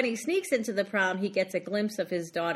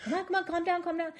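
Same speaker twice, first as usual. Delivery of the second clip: mock soothing; 9 semitones higher, 3 dB quieter, faster than usual. Creepy boyfriend hushing screaming girl.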